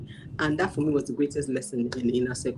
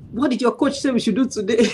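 put-on excited children calling; 6 semitones higher, 3 dB louder than usual.

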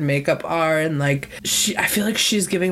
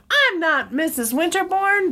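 mock indignant protest; 12 semitones higher than usual. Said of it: "she's like".

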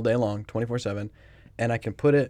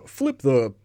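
slow instruction read; much slower than usual. Retold or imitated. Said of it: "one of them was like".

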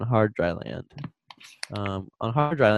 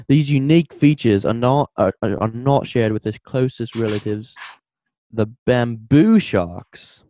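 put-on louder, playful Australian accent for the quote; 5 dB louder than usual. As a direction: read the quote like an Aussie. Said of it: "You gotta say it in an Australian accent".

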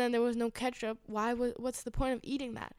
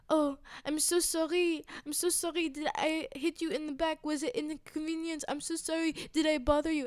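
higher, overdone sorry with a sneer; mock sarcastic apology; 5 semitones higher than usual. Retelling the stranger's fake apology, higher and mocking. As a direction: imitate his fake, syrupy apology. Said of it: "and then he goes".

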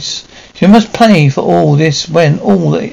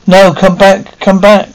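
desperate plea; 4 semitones higher than usual. Acted. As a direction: plead as they run away. Linda begs fleeing buyer to return.

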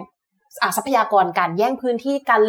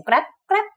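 higher-pitched crunching noise imitation; imitated rustling; 10 semitones higher, faster than usual. Researcher recounting sounds by a dried-up pond, imitated rustling. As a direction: mimic a rustle heard nearby. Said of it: "ได้ยินเสียง".

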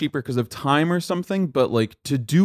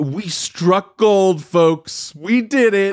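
mock triumphant director; 4 semitones higher, 3 dB louder, much slower than usual. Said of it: "He thought this was fu".

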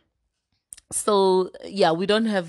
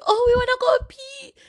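put-on whiny little kids; 7 dB louder than usual. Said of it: "after they're thirsty".

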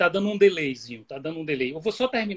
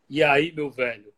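flat, level Pernambuco greeting, lower pitch; Pernambuco intonation; 3 semitones lower, 5 dB louder than usual. Shown as a demonstration. Contrasting Pernambuco with Bahia, flat tune. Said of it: "É mais reto".

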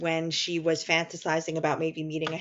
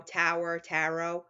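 New York accent; slower than usual. Shown as a demonstration. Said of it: "in my New York accent".

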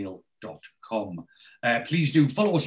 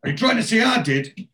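higher, louder, indignant as if wrongly blamed; wounded victim; 4 semitones higher, 5 dB louder, faster than usual. Retold or imitated. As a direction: play the hurt innocent, protesting. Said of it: "the victim, he says".

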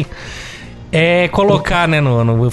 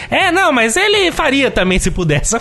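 mocking stubborn commenter; 9 semitones higher than usual.

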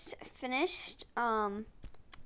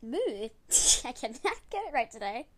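laughing. Real, not acted. Laughing at repeated flubs.

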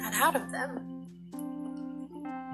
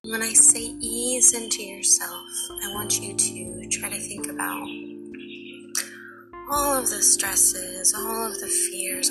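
guided meditation. Acted. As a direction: guide them gently into relaxation.

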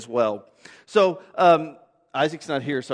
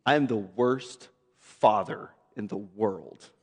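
mock despair; 10 semitones lower, 6 dB quieter, slower than usual. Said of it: "I'm texting her going".

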